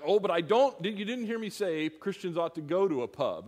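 mock flustered backpedal; apologetic. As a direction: hurry to take it back. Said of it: "I'd be all apologetic".

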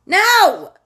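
loud, high, drawn-out no; emphatic refusal. Real, not acted. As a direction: shout it down in exasperation. Rejecting the fearful reaction.

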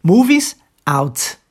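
"Movies out" slowed, S voiced as Z; "Movies out" with the final T dropped, spoken slowly; slow demo of linked words. Shown as a demonstration. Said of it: "Mas são duas".

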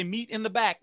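call and response. Shown as a demonstration. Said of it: "Everybody say".

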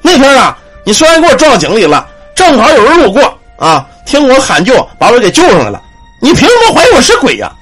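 put-on old man scolding the guard who thought him a ghost, high and indignant. Old man slaps and retorts.

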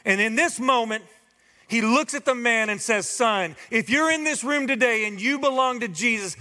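high preacher's voice through the passage; preaching at full force. Real, not acted.

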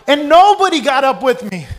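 high, loud indignant outburst; hammed-up indignation, slowing on the end; comic outrage. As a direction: yell it like a mock betrayal. Comic outrage at being left standing.

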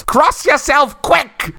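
high, loud Cockney shout. Retold or imitated. Old Cockney woman warns the man, loud Cockney shout. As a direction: yell it like an exuberant Cockney woman. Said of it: "in wonderful, exuberant Cockney accent, she shouts".

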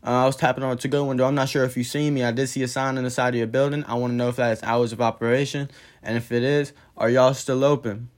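polite request. Retold or imitated. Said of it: "you coulda came up here respectfully".

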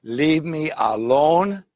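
slow, firm "leave me alone"; getting mad. Acted. Neighbour getting mad at the persistent caller. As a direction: push him away, irritated. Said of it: "And he's getting mad".

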